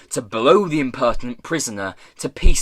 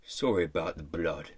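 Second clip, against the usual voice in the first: low, soft, sincere; earnest apology; 7 semitones lower, 8 dB quieter than usual. A narrator's reading. Pirate boss to the prisoner he freed, earnest. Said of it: "he said earnestly".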